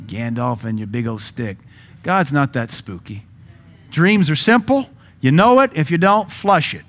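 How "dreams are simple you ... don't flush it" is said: emphatic preaching. Real, not acted. Preaching climax.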